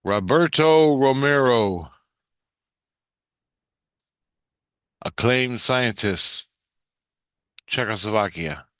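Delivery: mock scream, drawn out, trailing off; retold scream. Voice in the dreamer's head calling out a name, mild mock scream. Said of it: "A voice screams in my head".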